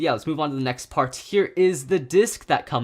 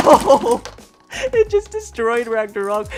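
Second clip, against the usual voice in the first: excited; 7 semitones higher, 10 dB louder, slower than usual. Real, not acted. The spinning top smashes Ragnarok.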